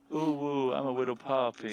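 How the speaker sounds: high, eager puppy voice; squeaky excited little pup; cartoon dog. Player plays the puppy.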